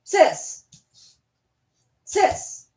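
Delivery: sweet pet call; calling the dog. Real, not acted. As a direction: coax the dog with a little high call.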